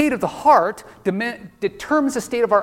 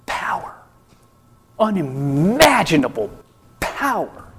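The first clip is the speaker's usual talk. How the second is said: whispered hunger for unimaginable power; menacing evil villain. Pretend. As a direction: savour the word power like a villain. Imagined lust for divine power.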